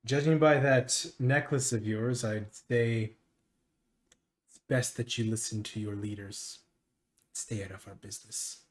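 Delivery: a touch of a stern, guarded official; measured warning from an assembly master; lightly voiced haughty master. Master warns a curious player off their business, lightly stern.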